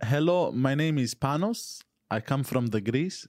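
slow, exaggerated Greek accent; overdone Greek accent. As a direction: ham up a thick Greek accent. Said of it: "Yours is way overdone".

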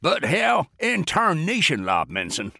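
high, drawn-out blustering general; mock roar. A narrator's reading. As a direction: roar it without real volume, dragging the words. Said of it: "he roared".

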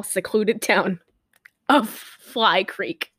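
measured movie-prologue reading; dramatic reading. Acted. Host reads the film's opening text to co-host, measured dramatic reading. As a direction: read it out like a film's opening card.

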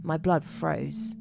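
measured spooky-tale narration; deliberate storyteller read; story narration. A narrator's reading. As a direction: read it out like a campfire mystery, pausing between phrases.

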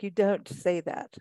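slow, imitated la-di-da English accent. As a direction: mimic a la-di-da English accent, drawing it out. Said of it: "are you from England now".

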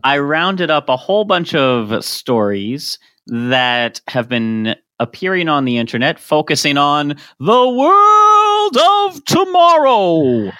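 Epcot announcer. Acted. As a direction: boom it like a futuristic ride announcer. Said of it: "You sound like the announcer at Epcot".

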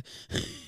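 voiceless huff of a runner; imitated running breath. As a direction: puff out as if mid-run. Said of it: "I think when I actually breathe".

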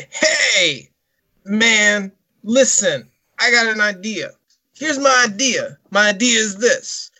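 a loosely done Scarface voice, slow and drawn out; Scarface impression. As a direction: do a lightly voiced tough gangster. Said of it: "and I'm talking like this".

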